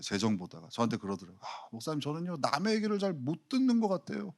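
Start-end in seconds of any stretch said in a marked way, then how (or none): 1.4-4.3 soft, sighing and self-mocking; mock quiet confession. Deaconess confessing to the pastor, softly self-mocking. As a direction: play the shy deaconess owning up. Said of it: "저한테 그러세요".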